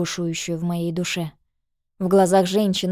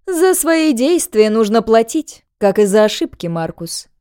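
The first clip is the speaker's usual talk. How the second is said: cold villainess; 3 semitones higher, 6 dB louder than usual. Acted. Villainess passing sentence.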